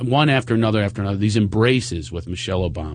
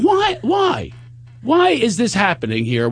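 mock jealous whine; 11 semitones higher than usual. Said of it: "And I'm going".

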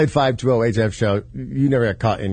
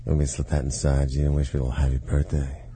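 deep sleazy lover voice; low seductive voice; 5 semitones lower than usual. Acted. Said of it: "just something low".

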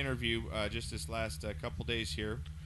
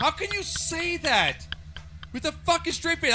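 rising rant; 13 semitones higher than usual. Real, not acted.

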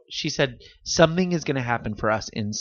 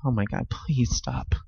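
embarrassed whisper; 5 dB quieter than usual. Real, not acted. Embarrassed plea.

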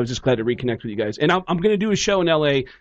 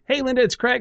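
retold phone greeting; 9 semitones higher than usual. Nervous phone call acted out.

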